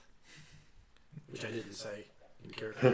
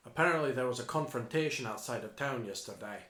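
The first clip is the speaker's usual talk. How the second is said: put-on odd Scottish accent; 2 semitones lower than usual. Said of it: "a weird way to pronounce yesterday".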